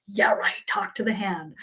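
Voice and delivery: fading mock dismissal. Past self waving off her angels, softly laughing. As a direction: let the brush-off crumble into a giggle. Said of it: "I would have laughed".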